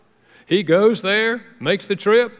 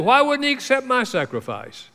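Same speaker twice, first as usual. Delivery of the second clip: angry Cain; 8 semitones higher than usual. Retold or imitated. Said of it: "So Cain got angry".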